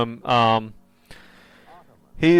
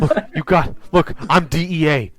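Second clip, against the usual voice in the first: raised, louder, stumbling appeal; acted desperate captive; urgent insistence; 4 semitones higher, 3 dB louder than usual. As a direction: insist on who you are, breaking off and restarting. Voicing captive agent insisting on identity.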